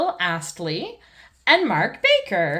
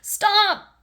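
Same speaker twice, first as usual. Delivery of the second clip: high, loud cry of stop; shout; 12 semitones higher, 4 dB louder than usual. Acted. Mister Bull stopping the traffic with a loud high shout. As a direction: bellow it to halt the cars. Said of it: "shouts Mister Bull".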